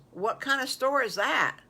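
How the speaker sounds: high, loud puzzled question; astonished wolf. Acted. Wolf asks friends about an unknown store, amazed. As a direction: ask it in amazed curiosity.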